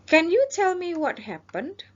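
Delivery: high, slow dispatcher voice; officer role. Shown as a demonstration. Teacher as emergency operator questioning the caller. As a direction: act the calm operator asking questions. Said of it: "ini adalah petugas".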